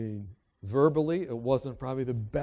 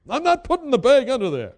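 high, loud indignant outburst; hammed-up, high-pitched protest; freaked-out refusal; 9 semitones higher, 9 dB louder than usual. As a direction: imitate an upset passenger refusing. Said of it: "the lady just kinda freaked out".

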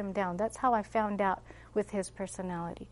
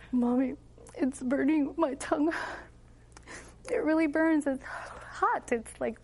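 lightly voiced child, higher pitch; a hint of a child protesting the burn; child complaining; 4 semitones higher than usual. Child complaining of burning garlic.

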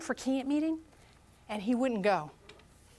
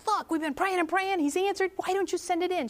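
frustrated; 6 semitones higher than usual. Retold or imitated. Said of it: "I was so frustrated with her".

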